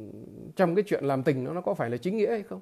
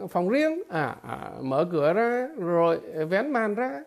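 ordinary talk

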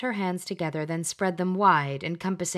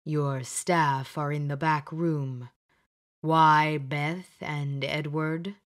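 Bedivere in the mirror; 2 semitones lower, slower than usual. Acted. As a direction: question her gravely, unhurried.

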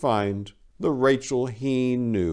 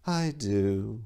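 dreamy; 8 dB quieter than usual. Acted. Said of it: "responded Rachel dreamily".

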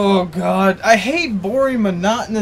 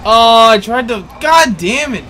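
raging gamer; 2 semitones higher, 6 dB louder than usual. Real, not acted. Frustration at game.

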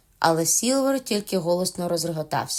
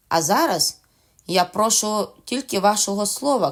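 a lightly voiced wily pirate captain; Silver's voice; 2 semitones higher than usual. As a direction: coax the captain into a promise.

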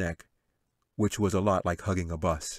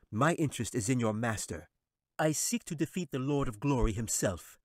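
high, sly wizard voice; 4 semitones higher than usual. Acted. Wizard dismissing the angel, sly and high. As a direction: sneer it down from the throne.

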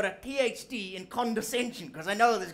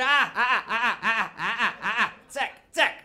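mock scolding; 4 dB louder than usual. Telling off the clerk.

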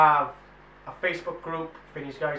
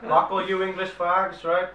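put-on loud, slow drunken heckling; belligerent drunk; 4 semitones higher, 5 dB louder, slower than usual. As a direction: slur it like a pub brawler. Mock drunken rant at viewers.

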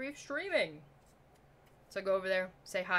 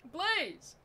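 high begging please; pleading; 10 semitones higher, 3 dB louder than usual. Real, not acted. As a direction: beg like you mean it. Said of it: "I am begging you".

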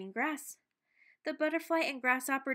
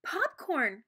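excited cry, a little louder; cried out; 4 semitones higher, 4 dB louder than usual. Acted. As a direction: shout it with delight. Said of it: "cried Dexter".

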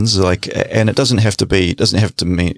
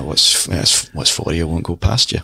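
put-on Scots accent; slower than usual. Rusty Scots accent for his mum's saying. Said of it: "I haven't done the Scots accent for a wee while".

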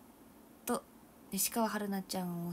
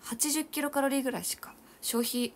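surprised; 6 semitones higher, 5 dB louder than usual. Real, not acted. Dismayed at tiny calorie burn.

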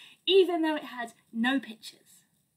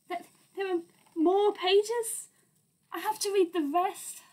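mock dismay; 7 semitones higher than usual. Reader dismayed at more pages.

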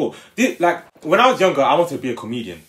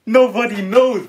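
higher, pushed repeat of a punchline; insistent punchline; 8 semitones higher, 4 dB louder than usual. Real, not acted. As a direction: push the joke at an unresponsive crowd, pitched high. Insists on punchline after silence.

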